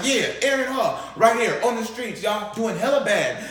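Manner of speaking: hammed-up livestream mock; mocking announcer. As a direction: taunt him for viewers.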